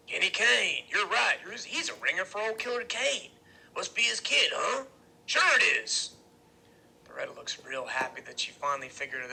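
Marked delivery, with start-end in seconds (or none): 0.1-6.2 raised voice as it dawns on him; excited recognition. A narrator's reading. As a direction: agree with growing certainty, higher and louder. Iggy's eyes widen, recognizes him.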